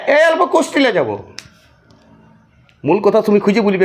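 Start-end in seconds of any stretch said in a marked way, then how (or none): 0.1-1.2 villager's reply. Retold or imitated. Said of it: "কোথায় যাবে".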